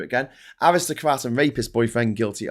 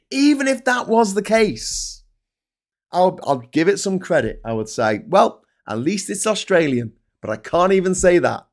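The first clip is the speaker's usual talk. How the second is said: ranting reply; 7 semitones higher, 7 dB louder than usual. Retold or imitated. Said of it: "I'm like".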